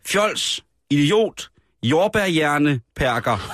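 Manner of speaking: retold shouting. Radio host quoting a man shouting at police, mild mock shout. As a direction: call out the insults, half-hearted. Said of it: "reagerede han ved at råbe".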